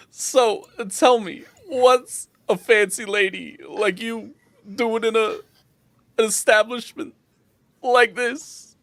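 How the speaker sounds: high barkeep voice with pauses; inquisitive bartender. Acted. Bartender asking a fancy lady why she came, high and inquisitive.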